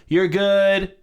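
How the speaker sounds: calm it down like a bouncer. Retold or imitated. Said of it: "sounded like a bouncer at a club".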